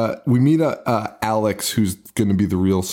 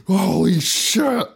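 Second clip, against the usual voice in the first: high, slow mock scream; drawn-out fake shriek with laughter in it; retold screaming; 9 semitones higher, much slower than usual. Retelling the group reacting to Alex's database excuse, mock scream. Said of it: "in between people screaming at him".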